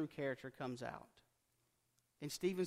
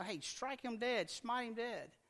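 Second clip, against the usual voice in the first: mock hateful plea; 6 semitones higher, slower than usual. Mocking hateful believers.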